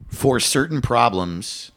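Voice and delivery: measured robotic delivery. Real, not acted. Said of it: "I don't know why I said it like a fucking robot".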